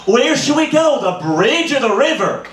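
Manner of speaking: high, bright imitation of Dora asking; high mock kids-show host voice. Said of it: "She's like".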